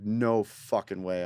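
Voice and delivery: slow, drawn-out amazement; stunned disbelief. Retold or imitated. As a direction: stretch out each word in mild disbelief. Acts out mother's disbelief.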